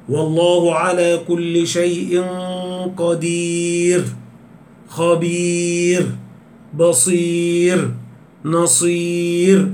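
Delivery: chanted verse, very slow, each word stretched; slow Quran recitation. Shown as a demonstration. Teacher reciting examples of pausal ر for students, very slow recitation. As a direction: recite قدير خبير بصير نصير slowly with thin final ر. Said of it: "هكذا".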